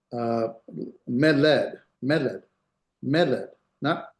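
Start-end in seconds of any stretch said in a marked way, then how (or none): 1.1-2.4 meled with the accent on the first syllable, me; stress on first syllable. Shown as a demonstration. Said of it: "pronounce it at the beginning". 3.0-3.5 meled with the accent on the first syllable, me; stress on first syllable. Shown as a demonstration. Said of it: "accent here".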